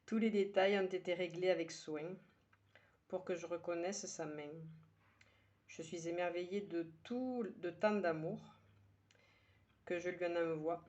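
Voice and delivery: measured verse reading with pauses between lines; poem recitation. Acted. Poet sharing today's poem with her listeners, measured recitation. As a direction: recite it line by line, letting each one settle.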